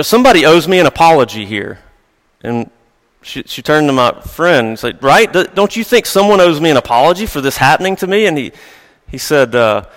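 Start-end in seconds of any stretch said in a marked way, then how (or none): 0.0-1.8 imitating an annoyed woman, fast and a bit louder; a retold huffy complaint; mock frustrated. Coworker complaining about the sprayed drink: mock frustrated. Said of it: "obviously frustrated by that". 5.0-8.3 indignant. Retold or imitated. Coworker demanding agreement.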